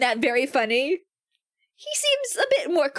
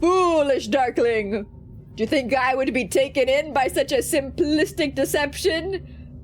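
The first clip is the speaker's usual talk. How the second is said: scornful demon. Acted. Demon seeing through the fake offering, scornful. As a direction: scoff at the trick.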